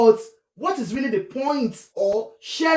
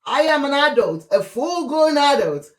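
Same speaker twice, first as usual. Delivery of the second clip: defiant mock wife; 3 semitones higher than usual. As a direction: declare it boldly like the wife. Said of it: "She says".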